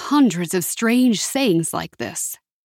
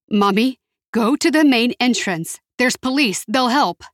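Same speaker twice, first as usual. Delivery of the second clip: urgent calling; 4 semitones higher than usual. Acted. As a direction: press her to go. Urgent instructions on phone.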